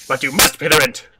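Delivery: sneering landlord insisting; hammed-up villain; sneering panto villain. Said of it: "evil landlord".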